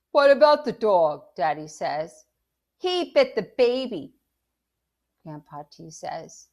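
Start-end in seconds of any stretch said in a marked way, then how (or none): 0.1-1.3 loud, high, urgent demand; alarmed shout. A narrator's reading. Father alarmed, shouting over the uproar. 2.8-4.1 high, loud, agitated report; yelling. A narrator's reading. Grandpa yelling about the bite.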